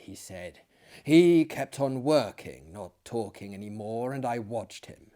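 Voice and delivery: measured dramatic reading voice; steady storyteller's read; story narration. A narrator's reading. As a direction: read it like a dark gothic tale.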